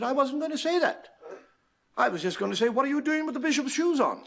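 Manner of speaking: a hint of a puzzled superior; understated prim nun; Mother Superior. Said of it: "the Mother Superior said".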